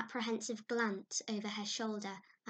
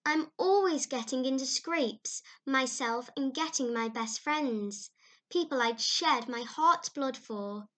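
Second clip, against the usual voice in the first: put-on higher, louder, earnest girlish lament; Anne, higher and pleading; eager young girl voice; 4 semitones higher, 7 dB louder than usual. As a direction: play a dramatic young girl pouring out woes. Anne's lament to Mrs Lynde.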